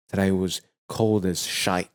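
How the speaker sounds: proper, posh British delivery. Acted. Greeting co-host about the cold morning, posh British. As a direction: put on a posh British accent, measured. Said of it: "as the Brits say, in a quite proper and posh form".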